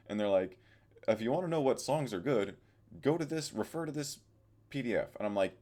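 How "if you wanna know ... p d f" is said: higher, louder mocking of the school; mocking dismissive voice. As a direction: mimic a brush-off reply, higher. School's dismissive reply, mocked.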